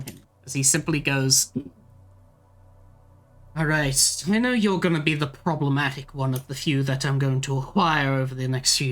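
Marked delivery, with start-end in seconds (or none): 3.6-8.9 a hint of a cool villain; smug villain, lightly voiced; lightly voiced Tin Man.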